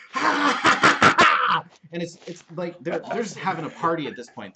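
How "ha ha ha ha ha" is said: high, loud gleeful goblin cackling; goblin cackle. Retold or imitated. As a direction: cackle like a pack of goblins at a party. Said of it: "They're like".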